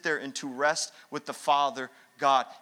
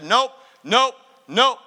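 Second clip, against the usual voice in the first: mock stubborn refusal; 8 semitones higher, 11 dB louder, slower than usual. Retold refusing God's call.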